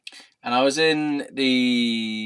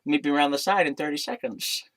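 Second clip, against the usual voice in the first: higher put-on voice with a laugh before it; silly character voice; 4 semitones higher than usual. Bartender naming the meeting place, silly raised voice. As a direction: mimic him in a raised, slushy voice. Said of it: "These voices are amazing".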